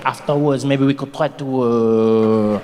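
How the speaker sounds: put-on low, seductive French accent, halting. A Frenchman chatting someone up, in a French accent. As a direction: play a smooth Frenchman hunting for words. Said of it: "Look at the French".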